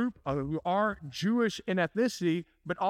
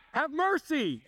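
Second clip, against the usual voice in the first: retold cry for mercy; 9 semitones higher, slower than usual. Lepers crying to Jesus, mild mock shout. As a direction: lightly voice the lepers calling out. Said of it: "They're screaming out".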